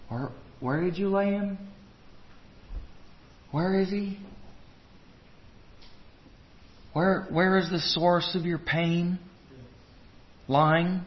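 soft, careful questions; tender questioning. Acted. The Lord seeks the source of pain, soft and tender. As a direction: ask gently, with searching pauses.

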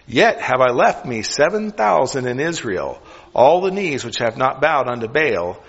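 put-on measured, solemn reading of the old text; scripture reading. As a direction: read it out like scripture in church.

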